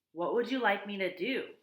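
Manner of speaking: a misjudged, too-lively robot voice; wrong robot voice. Acted. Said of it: "that was probably the wrong voice for the robot".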